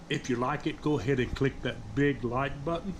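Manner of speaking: talking with a mouthful; chewing while speaking; mouth full. Real, not acted. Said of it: "I'm eating with my mouth full".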